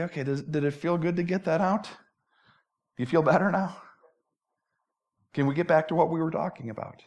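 soft, patient questioning; long-suffering. Acted. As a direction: wait out an outburst, then ask softly. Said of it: "'Cause Jesus is long-suffering".

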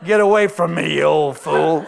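loud, laughing mock scold; hammed-up wife shooing her husband; mock old wife snapping at her husband. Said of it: "I can hear her".

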